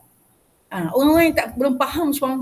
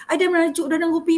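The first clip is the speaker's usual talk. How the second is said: quoting a sulky customer; 4 semitones higher, 3 dB louder, faster than usual. Retold or imitated. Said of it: "Dia kata".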